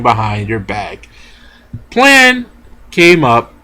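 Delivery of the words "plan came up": excited. Real, not acted. Hyped retelling of fight.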